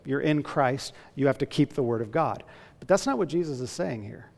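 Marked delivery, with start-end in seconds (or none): 0.0-2.4 fast, pushy demand to keep the law; mock legalistic preacher. Preacher mocks a wrong sermon as a quick stern command. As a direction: rattle it off as a stern command, a touch louder. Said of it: "one way to preach this would be to say".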